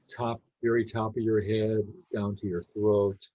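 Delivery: calm meditation guidance with long pauses; unhurried, easy guide leaving space between phrases; guided meditation. Real, not acted. Leading a group to notice body and breath, guided meditation.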